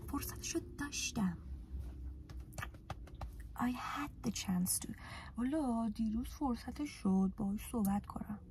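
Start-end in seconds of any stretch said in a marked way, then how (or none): 3.5-4.9 slow model sentence. Shown as a demonstration. Teacher models English example.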